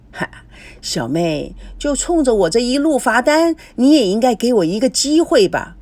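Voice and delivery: animated, mock-indignant pleading; hammed-up grievance to a little sister; pushy suitor. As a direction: plead your case with lively insistence. Liu protests being locked out.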